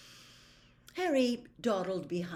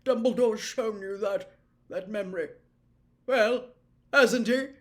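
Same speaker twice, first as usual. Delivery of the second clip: a hint of the old professor, rattled; shaken Slughorn; 3 semitones higher, 8 dB louder than usual. Slughorn to Harry about the memory, a touch rattled. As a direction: press him, nervous and accusing.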